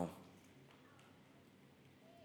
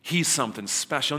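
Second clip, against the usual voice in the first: louder, casual dude voice with a stammer; hammed-up buddy picking favourites; a light impression of a guy ranking people; mock bro talk; 4 dB louder than usual. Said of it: "he looks at you and goes".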